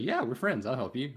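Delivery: random dwarf. Retold or imitated. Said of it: "talked to some random dwarf".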